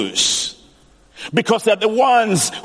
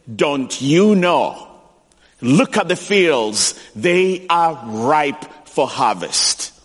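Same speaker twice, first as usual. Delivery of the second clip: low, slow, earnest voice of Jesus; slow it down and speak as Jesus; Jesus gently urging; 5 semitones lower, slower than usual. Retold or imitated. Jesus urging churchgoers, low, slow and earnest. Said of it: "Jesus looks at you and says".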